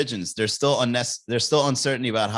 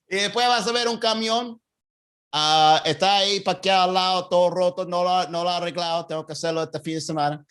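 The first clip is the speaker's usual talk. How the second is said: rambling Cuban directions, a little raised; Cuban accent; 2 semitones higher than usual. Retold or imitated. Cuban local pointing out a broken truck, mildly raised. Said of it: "my Cuban accent was on point".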